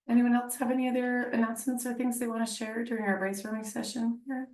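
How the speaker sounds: high squeaky voice; pinched, squeaky throat. Real, not acted. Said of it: "Sorry, my voice is so squeaky".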